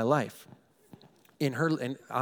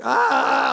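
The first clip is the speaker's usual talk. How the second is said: mock inner scream; 9 semitones higher, 7 dB louder than usual. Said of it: "screaming in my head".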